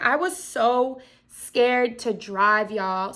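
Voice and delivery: talking through hiccups; hiccuping. Real, not acted. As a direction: hiccups breaking the words. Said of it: "woo, I'm hiccuping".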